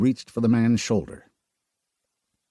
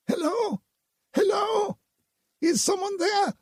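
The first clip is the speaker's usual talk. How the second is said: high, anxious woman's calls; woman calling through the rune for survivors. A narrator's reading. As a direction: call out, hoping someone answers.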